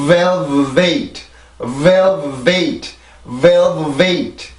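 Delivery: velvet with a strong first v and a lighter second v; velvet, airflow strong on VEL weaker on vet; teacher demonstrating v air strength; compare the v sounds. Shown as a demonstration. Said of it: "다시 한번 해볼게요".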